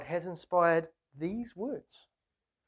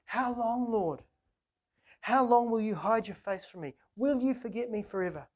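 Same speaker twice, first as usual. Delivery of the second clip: higher and louder, crying out to the Lord; pleading lament; 5 semitones higher, 3 dB louder than usual. Shown as a demonstration. Preacher shows the congregation how to pray the psalm, pleading. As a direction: model the psalm as an honest, aching prayer. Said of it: "use the words of this psalm to express how you're feeling".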